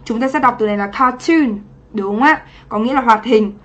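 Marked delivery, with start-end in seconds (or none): 0.9-1.6 "cartoon" stressed on TOON; stress on second syllable. Shown as a demonstration. Teacher showing an exception to the noun rule, second syllable of "cartoon" stressed. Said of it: "trọng âm lại rơi vào âm tiết thứ hai".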